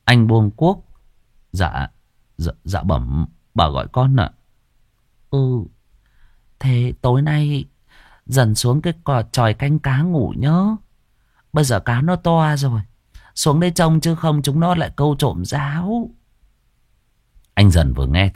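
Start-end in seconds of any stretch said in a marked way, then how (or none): 1.5-4.3 timid stammer. Acted. Servant answering mistress, timid and low. 5.3-16.1 higher, sweetly bossy order; scheming mistress. Acted. Mistress sending Dần to the hut, higher and sly.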